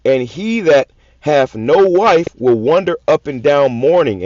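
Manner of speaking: slow, weighty reading of a verse; scripture reading. Acted. Preacher reading a verse to his listeners, slow and weighty. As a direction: read the verse slowly, like a preacher.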